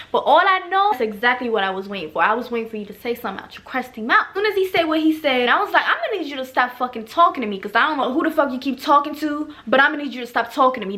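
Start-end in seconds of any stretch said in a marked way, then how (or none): 5.9-11.0 with attitude. Retold or imitated. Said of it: "with attitude".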